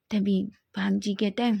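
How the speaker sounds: ordinary delivery, nothing marked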